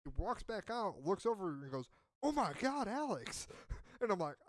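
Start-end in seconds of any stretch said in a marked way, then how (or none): 2.2-3.5 high, loud mock cry of shock; retold alarm. She finds him fallen on stairs, retold alarm. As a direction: exclaim it higher and louder, imitating alarm.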